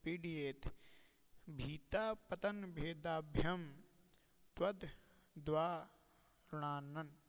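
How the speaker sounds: recited like a scholar quoting scripture; Sanskrit verse recitation. Acted. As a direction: intone each word of the verse carefully.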